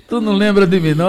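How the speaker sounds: high, loud acted-out question; imitating someone demanding to be remembered, loud; retold exclamation. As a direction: call it out loud and high, quoting her. Acting out old dancer's recognition.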